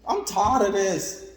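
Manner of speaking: pleading, high and loud; inner cry to God. Retold or imitated. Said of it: "you gonna cry on the inside".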